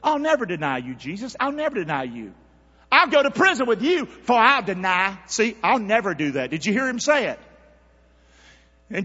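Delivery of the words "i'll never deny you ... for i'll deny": Peter's boast. Retold or imitated. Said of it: "That's what Peter said".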